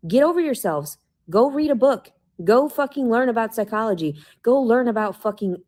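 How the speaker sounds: real anger at people who won't listen; angry rant. Real, not acted. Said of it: "I'm fucking angry right now".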